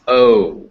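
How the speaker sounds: O drawn out, gliding into oo; long O glide. Shown as a demonstration. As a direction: demonstrate the full English O, loud and falling. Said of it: "these two sounds together make".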